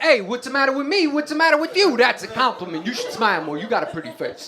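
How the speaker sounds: cocky mock-indignant tough guy; guy's guy. Guy's guy brushing off a woman he just smacked, mock indignant. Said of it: "the type of guy who would, like, smack a chick".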